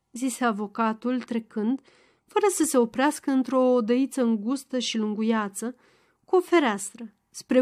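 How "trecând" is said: usual speaking voice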